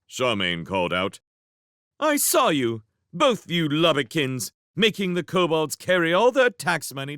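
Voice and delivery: put-on high, loud accusing girl; indignant girl. Charmaine calling out.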